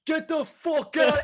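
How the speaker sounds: high mock New York shout; mock tough guy yell. Cement truck driver yelling at him to move. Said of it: "going like".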